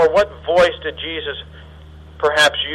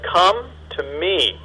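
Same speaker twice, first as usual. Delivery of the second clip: slow, softer calling; slow invitation; 4 dB quieter, slower than usual. Shown as a demonstration. Jesus calling listeners to himself, slow and gentle. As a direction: draw it out with appeal. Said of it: "authoritative, uh, command".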